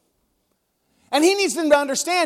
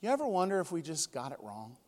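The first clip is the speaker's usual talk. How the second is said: quiet musing; 6 semitones lower, 14 dB quieter than usual. Retold or imitated. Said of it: "He just went".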